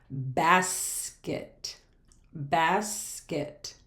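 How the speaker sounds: "basket" pulled apart as bas-ket; syllable by syllable. Shown as a demonstration. Teacher showing a two-syllable word, broken in two. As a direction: draw out "bas", pause, then "ket". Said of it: "We can clap out that word".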